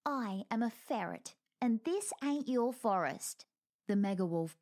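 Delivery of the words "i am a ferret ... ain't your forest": cold defiance. Acted. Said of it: "Squeak said coldly".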